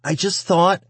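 high-pitched pleading voice; frightened protest. A narrator's reading. Cowering woman explaining to the shouting man, frightened protest.

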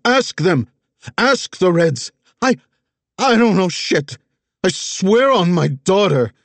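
high, loud terrified pleading; panicked shout. Acted. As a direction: scream it, begging for life. Vess begs with gun fired.

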